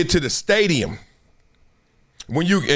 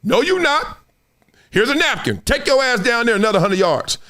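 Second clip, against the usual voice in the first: higher, needling coach reply; mock coach; 4 semitones higher than usual. Coach answering a player who wants home, mock stern. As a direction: coach sending you back to run, higher. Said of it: "coach looking at you like".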